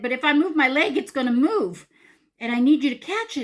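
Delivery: high, loud, insistent explanation; panicked pleading. Retold or imitated. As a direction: act out frantic instructions. Acted panicked plea to husband.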